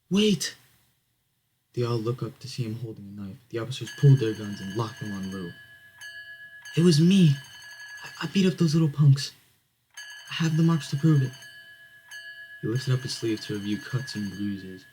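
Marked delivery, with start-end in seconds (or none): 0.1-0.5 high, loud cry to stop; acted desperate interruption; urgent call. Lou calls out to stop cops. 6.7-11.3 high, loud insistence; desperate self-accusing outburst; defiant confession. Acted. Lou falsely confesses, holding knife.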